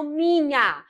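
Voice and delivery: "minha" pulled apart syllable by syllable; split into syllables. Shown as a demonstration. Teacher showing grammatical syllable division, "minha" split slowly. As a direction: say "minha" as two drawn-out syllables. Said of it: "com a separação silábica gramatical".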